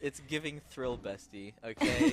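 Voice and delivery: teasing Gen Z slang voice; mock the co-caster in zoomer slang; ironic zoomer. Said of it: "ironic slang echo of co-caster".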